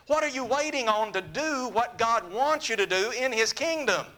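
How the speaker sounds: earnest altar-call plea to the congregation; sermon invitation with rising urgency; preaching invitation. Acted. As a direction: urge them to come to God now.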